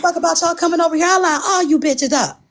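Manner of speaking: high-pitched angry quote; mock angry rant. Retelling her angry outburst.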